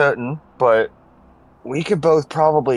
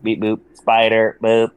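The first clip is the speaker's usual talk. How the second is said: robot beeps; 5 semitones lower, slower than usual. Pretend. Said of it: "You're a robot again".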